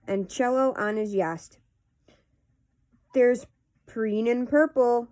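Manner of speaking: casual read-aloud of nonsense verse; poetry reading. Acted. Host reading Runny Babbitt poems to viewers, measured poetry reading. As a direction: read silly verse line by line, with pauses.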